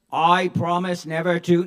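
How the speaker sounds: lightly put-on statesman's declaration; a loud, mistaken attempt at the voice; Grover Cleveland. Pinned driver doing the wrong Grover, mock-presidential. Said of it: "No, that's Grover Cleveland".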